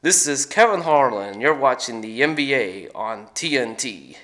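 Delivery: a hint of a booming TV intro; Kevin Harlan impression.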